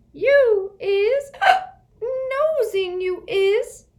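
high, loud, very slow elf; accusing drunk elf. Acted. Winky accusing Harry, slurred and high. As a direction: drag it out accusingly.

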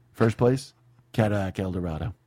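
lightly voiced sales boss reading the contest prizes; deadpan boss announcing the prizes; Glengarry sales boss. Sales boss announcing the contest to his salesmen, mock deadpan. Quoting Glengarry Glen Ross speech.

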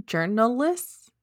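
journalists drawn out slow as journalisk, hissing; said like basilisk. Real, not acted. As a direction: stretch journalists slowly into a hissy journalisk. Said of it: "Why did I just say that like basilisk?".

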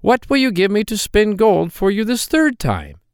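a droll little man, sly and teasing; hobgoblin voice. Acted. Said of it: "and said".

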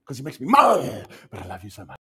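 scold, then melt with love; mad then tender. Pretend. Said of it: "You're so angry, but you wanna cry".

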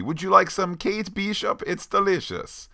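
hosting the enemy with mock sweetness; playful Yelena offer. Co-host voicing Yelena offering Kate macaroni, high and sweet. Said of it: "he has made macaroni".

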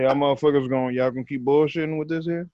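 stern glare. Retold or imitated.

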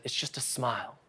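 a soft, hushed retelling; quietly. Retold or imitated. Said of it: "And he says it quietly".

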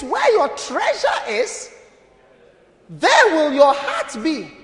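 very slow, weighty quote with music; slow proclaimed verse. Acted. Pastor corrects the misquote, slow and weighty. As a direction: drag out each word as scripture. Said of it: "It says".

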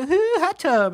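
high-pitched mock party squeal; drunk girls' excitement. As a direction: imitate tipsy girls spotting fun. Acting out drunk girls' reaction.

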